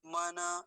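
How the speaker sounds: मन said as "ma-na"; मन in two syllables, ending in an open a; wrong full न. Shown as a demonstration. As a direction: add a vowel after the न in मन. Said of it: "ऐसा नहीं बोलेंगे".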